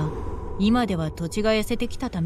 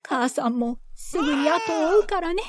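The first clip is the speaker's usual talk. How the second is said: tearful mother; 7 semitones higher than usual. Acted. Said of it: "母は泣きながら".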